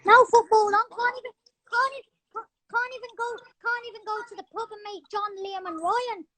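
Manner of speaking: lightly put-on English accent, grumbling; mock complaint in an English bloke accent; the speaker's English accent. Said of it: "I'm good at an English accent".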